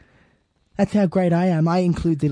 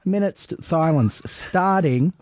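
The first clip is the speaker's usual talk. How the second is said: insistent no; 7 semitones higher, faster than usual. Real, not acted. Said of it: "shouting down the host".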